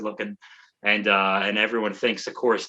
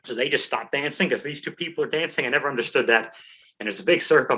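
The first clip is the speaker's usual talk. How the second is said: winded, talking between breaths; short of breath from telling it; 2 semitones higher, faster than usual. Real, not acted. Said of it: "I'm out of breath".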